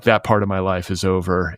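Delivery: lightly breathy imitation of a grieving actor; airy, breathy, solemn movie-star delivery; Liam Neeson breathy voice. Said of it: "in his, like, breathy voice".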